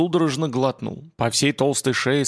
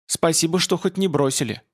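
deadly calm; 4 semitones higher than usual. Acted. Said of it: "мертвенно спокойным голосом".

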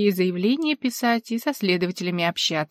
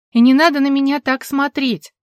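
higher, louder indignant retort; indignant protest, higher and louder; 5 semitones higher, 6 dB louder than usual. Acted. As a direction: stamp your foot with your voice. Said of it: "топнула ногой".

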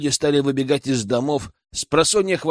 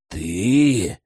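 stunned gasp of a word; 6 semitones lower than usual. Acted. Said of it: "только и смог выдавить я".

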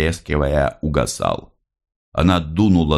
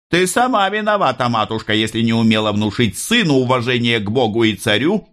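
high, sharp officer voice; stern officer; 7 semitones higher than usual. A narrator's reading. Officer lecturing the mother, high and stern. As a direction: scold her as the officer.

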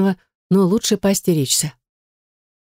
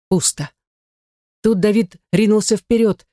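plain reading voice

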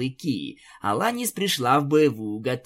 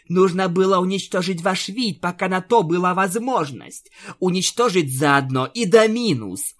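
higher, hateful vow; spiteful; 5 semitones higher, 3 dB louder than usual. Acted. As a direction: say it with cold venom. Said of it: "злобно произнесла Луна". (злобно)

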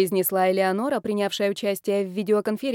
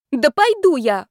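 higher, loud snapped yes; angry bark; 7 semitones higher, 7 dB louder than usual. Acted. The cornered bride finally yells her consent at her family. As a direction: snap it out, hurt and fed up. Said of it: "рявкнула я".

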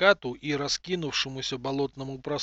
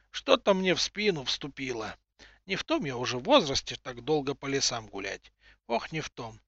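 put-on old woman voice. Aching old woman complains.

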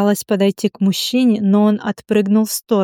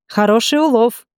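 whistling appreciation. A narrator's reading. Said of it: "присвистнул молодой парнишка".

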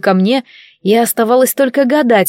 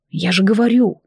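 drowsy, yawned words; sleepy yawn. A narrator's reading. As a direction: say it half asleep. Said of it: "сонно зевнула".

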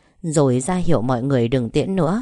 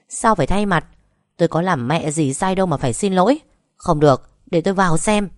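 indignant protest; 3 semitones higher, faster than usual. Acted. Wife protesting to husband.

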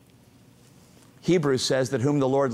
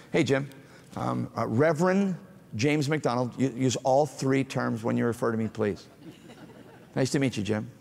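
cold formal greeting. Shown as a demonstration. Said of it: "Did that seem warm to you?".

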